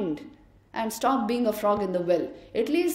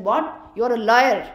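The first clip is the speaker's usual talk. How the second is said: loud, indignant outburst; angry frog; 5 dB louder than usual. Acted. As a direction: shout him down as a liar. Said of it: "this frog got very angry".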